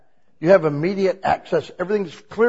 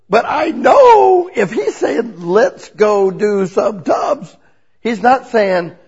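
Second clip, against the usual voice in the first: much higher, louder and slow; slow emphatic line; 6 semitones higher, 8 dB louder, slower than usual. Real, not acted. Preacher dwelling on God's invitation, slow, high and loud.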